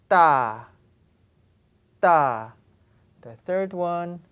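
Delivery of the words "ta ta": ta said hard and much louder; loud tensed ta. Shown as a demonstration. Teacher loudly demonstrating tensed ta. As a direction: hit the tensed ta firmly. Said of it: "tense sound".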